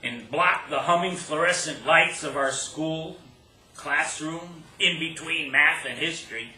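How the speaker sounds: measured poetry reading with stressed phrases and deliberate pauses; poem recital. Acted. Poet telling an audience about a childhood kiss, poem recital.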